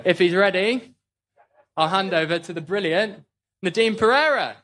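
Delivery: hyped introduction. Real, not acted. Host introducing next speaker.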